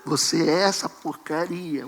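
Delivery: a hint of a condemning preacher; lightly voiced scornful pastor; mocking harsh pastor. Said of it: "O pastor fala pra você".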